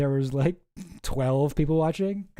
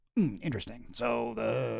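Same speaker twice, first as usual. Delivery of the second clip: put-on vocal fry voice, lower and quieter; 4 semitones lower, 7 dB quieter than usual. Retelling a video about Comet Ping Pong: imitating Flesh Simulator's vocal fry. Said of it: "trying to do the vocal fry".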